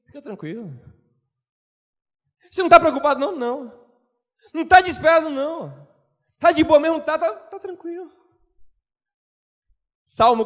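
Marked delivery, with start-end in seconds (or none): 0.1-8.1 reassuring friend. Retold or imitated. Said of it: "diz assim".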